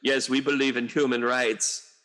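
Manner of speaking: lightly voiced smug official; a hint of a mock official voice; mock Russian official. Mocking Russia's officials at the UN, lightly put-on voice. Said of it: "you're like".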